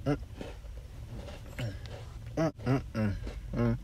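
mumbling while eating; chewing. Real, not acted. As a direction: mouth full of food. Seen 0: Bites white snack at -3, then closed-mouth chewing through the words.

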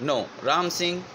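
a mild nervous cry to stop him; nervous shout. Acted. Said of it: "shouted nervously". (ગભરાઈને હળવી બૂમ)

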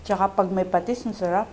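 speaking with food in mouth; words around a mouthful; talking while chewing. Real, not acted. Seen 5: Bite taken at -5; lips closed, mouth working while speaking.

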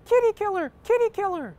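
high, loud mock shout; shouting protester. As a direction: yell it like a shrill curbside protester. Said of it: "shouts out".

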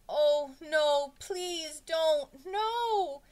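high, loud wail of dread; desperate, wailing begging; pleading. A narrator's reading. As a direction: plead frantically, voice climbing. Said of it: "Jason pleaded".

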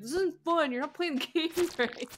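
high, loud whining complaint; mock sore loser. Player mimicking herself losing at tag, whiny protest. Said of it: "I'd be like".

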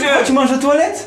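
laughing, high and loud. Real, not acted. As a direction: laugh through the question. Laughs at brother eating.

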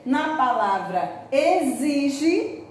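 "exige" devagar, X como Z; slow exige. Shown as a demonstration. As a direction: marque o Z em "exige". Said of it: "olha o som do Z". ("exige" lento, X soando Z)

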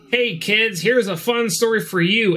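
lightly put-on kids' storyteller pitch; mock cheery pitch to children; a hint of a children's host; movie talking to kids.

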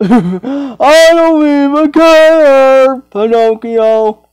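slow, drawn-out put-on voice; slow dismissive character. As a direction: drag every word out, unbothered. Playing characters in pretend scene.

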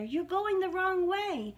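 high, slow storybook shout; shouting warning. A narrator's reading. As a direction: call them back, stretching the words. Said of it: "shouted Badger".

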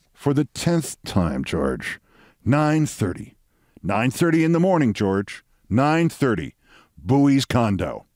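weary, slow exasperation; Edward Bennett Williams. Retold or imitated. Williams repeating the time for George, sighing exasperation. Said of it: "Williams sighed again".

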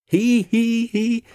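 high, sly little snigger. A narrator's reading. Sir Handel sniggering at his fooled friends, high snigger. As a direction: snigger behind everyone's backs. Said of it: "sniggered Sir Handel".

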